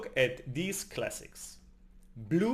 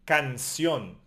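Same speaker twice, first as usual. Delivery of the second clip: "Canción" stressed on the final -ción; stress on last syllable; 2 semitones lower, 3 dB louder than usual. Shown as a demonstration. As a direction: lean on the end of "Canción". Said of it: "repeat the words after me".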